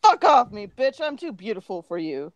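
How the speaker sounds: mock-disgusted dismissal. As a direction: brush him off in disgust. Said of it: "looked at him in disgusted".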